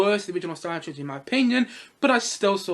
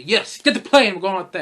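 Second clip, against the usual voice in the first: mock command; 7 dB louder than usual. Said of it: "And he says".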